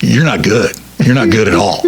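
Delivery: lightly imitated Southern put-down; Southern accent. Radio veteran to the auditioning DJ, light Southern accent. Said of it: "he had a real Southern accent".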